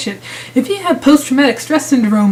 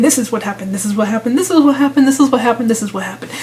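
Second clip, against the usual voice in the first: mocking repetition; faster than usual. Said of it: "I'm going to keep talking like this".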